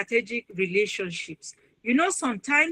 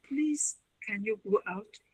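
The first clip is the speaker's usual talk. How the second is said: calm dismissal; 9 dB quieter than usual. Retold or imitated. Calmly dismissing angry visitor.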